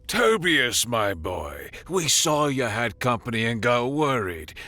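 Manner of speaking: jolly, oily pirate greeting; false bonhomie. Acted. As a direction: fake friendly menace. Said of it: "dripping with false bonhomie".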